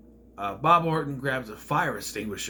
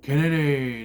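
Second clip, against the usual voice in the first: Kennedy punched short and louder; quick, louder Kennedy!; sharp name shout; 6 dB louder, slower than usual. Retold or imitated. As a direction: bark Kennedy out at the crowd. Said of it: "he goes".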